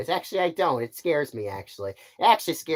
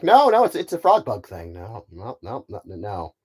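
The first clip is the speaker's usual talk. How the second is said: Buzz Lightyear; 3 semitones lower, 3 dB louder than usual. Acted. Space ranger denies the bug answered, flustered protest. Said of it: "he's gonna be a great Buzz Lightyear".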